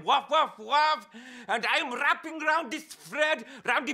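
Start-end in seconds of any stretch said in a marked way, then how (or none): 0.0-1.0 mock dog barks in his own accent; doggy woofs. Storyteller voicing two doggies, lightly imitated woofs. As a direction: woof it like a narrated dog. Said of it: "two doggies saying".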